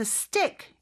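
"stick" with a light S and a T close to D. Shown as a demonstration. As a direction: say "stick" as s-dick, the S brief. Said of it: "요렇게 발음이 되고요".

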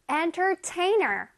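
Entertainer spoken slowly and clearly; teacher modelling Entertainer; slow model word. Shown as a demonstration. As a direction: stretch out Entertainer. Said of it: "One more time".

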